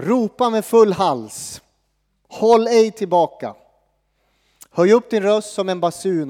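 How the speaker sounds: slow, solemn reading of God's words; measured Bible reading; scripture reading. Acted. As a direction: proclaim it like a prophet, slowly. Reads scripture.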